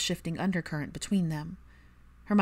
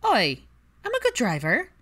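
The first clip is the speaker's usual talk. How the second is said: louder, higher playful indignation; indignant protest; 6 semitones higher, 6 dB louder than usual. A narrator's reading. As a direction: defend your driving, mock offended. Pansy protests.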